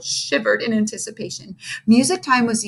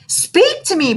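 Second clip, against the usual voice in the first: begging; 9 semitones higher, 4 dB louder than usual. A narrator's reading. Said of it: "begged Ham".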